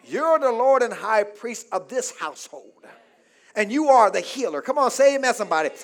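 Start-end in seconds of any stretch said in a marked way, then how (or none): 0.0-4.6 calm prayer. Shown as a demonstration. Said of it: "lay hands on your children and say".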